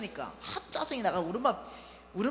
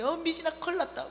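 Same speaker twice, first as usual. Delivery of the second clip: higher, louder urgent call; urgent alarm; 7 semitones higher, 5 dB louder than usual. Retold or imitated. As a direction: break bad news in a rush. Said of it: "다급하게".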